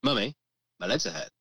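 imitated child, LEGS stressed, dropping on "hurt"; child's complaint, falling end. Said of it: "I'm changing the way I say it".

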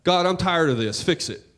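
fed-up complaining to God, half-acted; a weary, nagging rant of a prayer; a mock rant at God, sick and tired; exasperated rant. Shown as a demonstration. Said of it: "a rant sounds like this".

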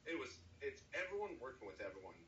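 talking through a burp; words broken by a burp; burping after fizzy drink. Real, not acted. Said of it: "I'm burping and shit".

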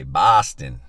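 loud, playful put-on Boston accent. Shown as a demonstration. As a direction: punch the city name in a mock Boston accent. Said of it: "Why do I wanna do an accent when I say Boston?".

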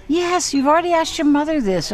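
exasperated father. Retold or imitated. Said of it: "his father says".

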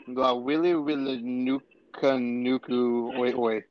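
"la wili wili nuka nuku oi oi" read slowly, syllable by syllable; sounding out Hawaiian. Shown as a demonstration. Friend attempting a long Hawaiian fish name, slowly sounded out. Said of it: "attempt to, uh, pronounce it".

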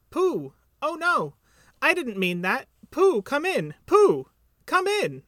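high, loud little character voice; excited Piglet. A narrator's reading. Piglet answers Pooh from inside the house, excited high call. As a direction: squeal it out, drawing out the final call.

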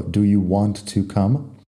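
"Do you want to come" with "want to" as two separate words; full careful form. Shown as a demonstration. Teacher showing the written form, "want to" fully pronounced. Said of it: "notarás que digo".

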